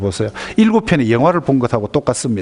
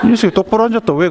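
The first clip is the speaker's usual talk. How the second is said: higher, mock-gruff retort; gruff father; 8 semitones higher, faster than usual. Father snaps at his lecturing son, mock-gruff. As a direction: snap back like an irritated dad.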